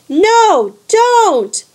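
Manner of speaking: high, loud screamed warning. A narrator's reading. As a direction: cry out to stop him. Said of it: "Annabeth screamed".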